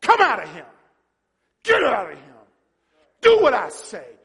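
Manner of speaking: loud, punched orders; commanding shout. Acted. Jesus casting out demons, shouting commands. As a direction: shout each order with full authority. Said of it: "Jesus shouted".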